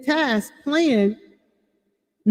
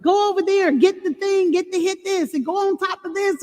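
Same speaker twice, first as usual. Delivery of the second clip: put-on higher, bossy little-kid game commands; imitating little boys; 7 semitones higher than usual. Boys giving orders in their video game, higher mock kid voice. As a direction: boss the other kid around like a small boy. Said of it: "Two, two little boys".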